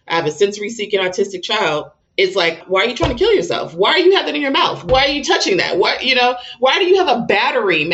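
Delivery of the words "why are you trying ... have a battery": higher, fast, frantic questions; rapid-fire panicked questions at a toddler; exasperated alarm. Retold or imitated. Retold alarm at child's antics.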